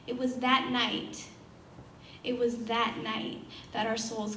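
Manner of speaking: subdued, deliberate poetry recital with long pauses; spoken-word poem. Acted. Poet closes on souls merging into one flame, subdued spoken word. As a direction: bring the verse down to a measured close.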